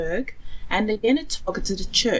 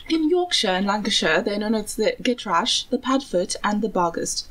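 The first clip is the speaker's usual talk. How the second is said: attempted Yorkshire-style British accent; self-conscious stab at a British accent; bad British accent. Shown as a demonstration. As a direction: read it in a clumsy put-on British accent. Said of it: "That is the worst British accent".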